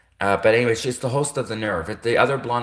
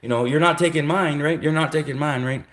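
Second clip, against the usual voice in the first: higher, stammering mock protest; mock panicked soldier; 5 semitones higher than usual. Real gay soldier guarding his junk, higher stammering mock panic. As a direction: fumble for words, guarding yourself. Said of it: "soldiers would be like".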